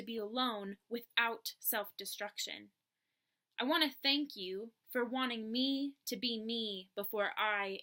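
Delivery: measured spoken-word poem reading; poem recitation. Acted. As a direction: recite it in deliberate phrases, drawing out line endings. Recites own poem to camera.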